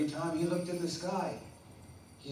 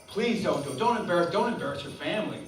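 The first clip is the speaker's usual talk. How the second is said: pleading frog; 2 semitones higher than usual. Acted. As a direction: beg the friend not to go. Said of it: "his best friend, the frog".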